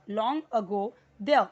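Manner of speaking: slow, loud "there" with the r dropped; correct pronunciation. Shown as a demonstration. Teacher modelling the reading, deliberate "there" without the final r. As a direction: read "long ago there" slowly, ending "there" as "deh". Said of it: "यहाँ पे there इतना ही पढ़ना है".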